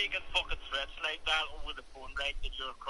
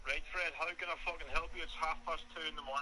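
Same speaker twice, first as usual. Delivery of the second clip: tired irritation; 2 semitones lower, 4 dB quieter than usual. Real, not acted. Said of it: "Why are you so mad at me?".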